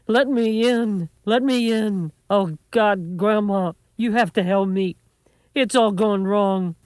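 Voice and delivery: high, drawn-out distressed begging; desperate pleading. A narrator's reading. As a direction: plead like a grandson at his wits' end. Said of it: "He had been crying".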